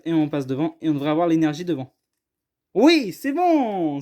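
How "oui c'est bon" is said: drawn-out, higher cheer of relief; pleased exclamation. Real, not acted. Card opener seeing the pack order worked, drawn-out delight. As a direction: stretch it out slowly, pitched up, pleased. Delighted on checking first pack's cards.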